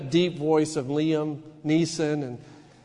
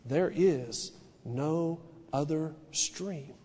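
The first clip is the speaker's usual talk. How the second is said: roaring booming lion; 3 semitones lower, 9 dB quieter, much slower than usual. Acted. Lion's line in read story.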